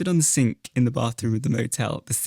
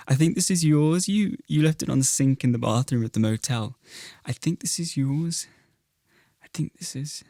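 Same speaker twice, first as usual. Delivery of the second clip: drifting into a light Liverpudlian lilt; accidental Liverpool accent; 3 semitones higher than usual. Acted. Una handing back the crucifix, slipping into Liverpudlian. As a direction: let a Scouse twang creep in unintended. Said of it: "what is that accent?".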